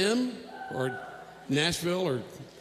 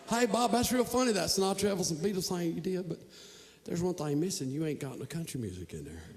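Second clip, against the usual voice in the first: soft thick Nashville drawl, fading quieter; Southern drawl; 6 dB quieter than usual. Retold or imitated. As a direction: stretch it like a Nashville local. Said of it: "Just translating".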